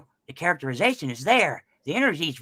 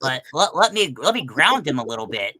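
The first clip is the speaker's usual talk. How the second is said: goofy beaver voice; 4 dB louder than usual. Shown as a demonstration. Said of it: "I sound goofy right now".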